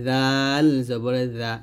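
"জাল" drawn out, tongue tip at upper teeth; thin dental dhal. Shown as a demonstration. Teacher models the thin letter, dental "জা". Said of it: "আগা লাগাবেন পাতলা করে".

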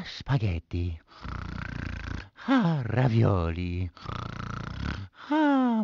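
low, soft dreamy murmur; sleepy mumble. Acted. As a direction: mumble the words half asleep. Mario falling asleep murmurs.

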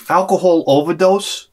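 "overdose" rises in disbelief; incredulous question. Real, not acted. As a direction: echo it back like you can't believe it. Incredulous echo of the call.

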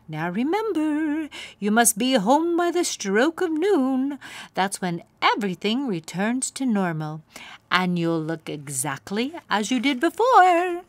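put-on kindly old magical mare; fairy godmare. A narrator's reading. Fairy godmare greeting crying Poniella, high and grand. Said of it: "her fairy godmare said".

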